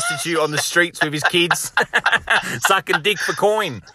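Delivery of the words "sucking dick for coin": laugh-shouted punchline. Real, not acted. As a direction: blurt it through a laugh, slower.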